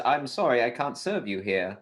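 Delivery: lightly voiced British bartender; British accent. British bartender refusing lost puppies, British accent. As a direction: put on a polite British accent. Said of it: "the British bartender says".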